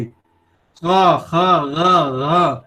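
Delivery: क, ख, ग said with the Urdu nukta sounds, from further back in the throat; क as qaf, ख as a rough khe, ग as a rough ghain. Shown as a demonstration. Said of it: "इस तरह से बोलना चाहिए". (उर्दू नुक्ते वाला उच्चारण, क़, ख़, ग़)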